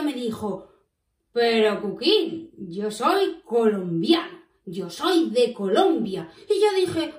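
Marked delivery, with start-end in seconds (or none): 1.3-6.3 slow, lower, a touch of pride; lightly voiced proud friend, each phrase drawn out; proud and happy. Juan tells Cuquín where he is from, proud and happy. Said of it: "me dijo todo orgulloso, todo contento".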